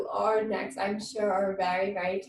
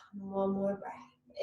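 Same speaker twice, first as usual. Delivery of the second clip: whispered; 3 semitones lower, 9 dB quieter, slower than usual. Real, not acted. Soothing breathing cue.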